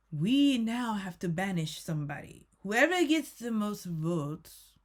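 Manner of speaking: lightly put-on, weird host accent; attempted Alan Cumming accent. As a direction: announce it in a slightly off imitation accent. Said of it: "Am I doing the right accent?".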